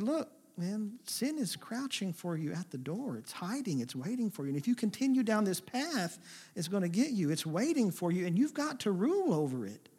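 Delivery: a hint of a loving God cautioning; caring warning. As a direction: warn him gently but earnestly. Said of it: "cautioned him".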